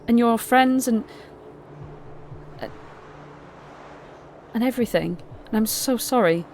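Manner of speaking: lightly voiced repentant knight girl; remorseful young woman. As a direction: pour out a heartfelt sorry. Gleam promising, apologetic.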